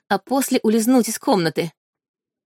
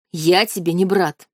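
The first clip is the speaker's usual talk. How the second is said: spat out. Acted. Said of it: "буквально выплюнул он".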